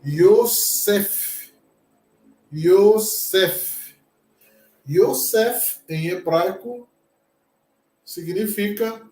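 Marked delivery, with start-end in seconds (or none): 0.0-5.8 Yosef said slowly, stress on the last syllable, yo-SEF; Hebrew pronunciation. Shown as a demonstration. Teacher models the Hebrew name for students, clear and careful. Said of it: "como nós lemos essa palavra?".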